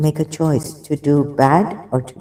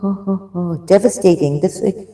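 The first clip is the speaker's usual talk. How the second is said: normal talking voice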